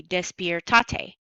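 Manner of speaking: DESPIERTATE with the stress moved onto TA; wrong stress. Shown as a demonstration. Teacher showing the word without its accent mark, DESPIERTATE stressed on TA. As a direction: say despiertate as des-pier-TA-te. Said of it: "does not sound like despierta".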